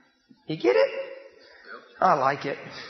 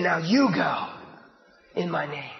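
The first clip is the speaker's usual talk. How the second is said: low, soft voice of God; a hint of a quiet divine command; lightly voiced God; 9 semitones lower, 5 dB quieter than usual. God sending his people, a hint of low quiet command.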